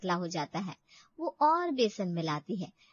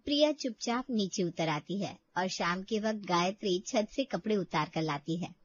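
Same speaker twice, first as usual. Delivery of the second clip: calm narrator voice, slightly lower; story narration; 3 semitones lower than usual. A narrator's reading. Narrator telling the audience about Priya, calm story voice. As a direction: tell the story evenly to the listener.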